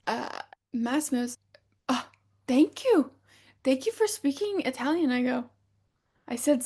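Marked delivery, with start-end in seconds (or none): 1.9-5.1 imitated gushing thanks. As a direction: overdo Massimo's delighted thank you. Massimo thanks her warmly.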